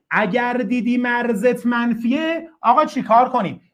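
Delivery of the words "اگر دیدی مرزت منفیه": slower repeat. Shown as a demonstration. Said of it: "teacher repeats the rule".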